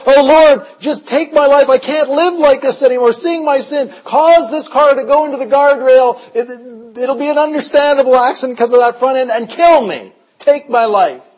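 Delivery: anguished prayer. Retold or imitated. Weeping driver crying out to God from the car, anguished. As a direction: beg the Lord to take your life. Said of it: "I'd just be weeping".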